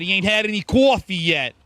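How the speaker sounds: playful put-on New York accent. Streamer introducing his buddy Red, mock New York accent. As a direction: lean into a New York "coffee". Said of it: "Saying coffee in New York accent".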